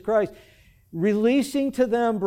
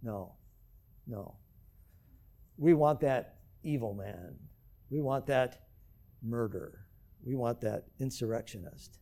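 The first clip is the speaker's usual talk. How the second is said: crowd reply; 7 semitones lower, 8 dB quieter than usual. Acted. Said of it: "And the crowd says".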